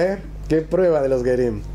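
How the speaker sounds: ordinary talk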